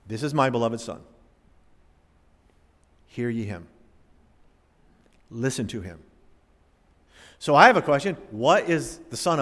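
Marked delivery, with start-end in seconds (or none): 0.1-6.0 low, hushed and reverent; quiet reverent reading of the Father's words; hushed voice of God. Acted. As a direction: read it softly, in awe. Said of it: "The voice of God, the Father".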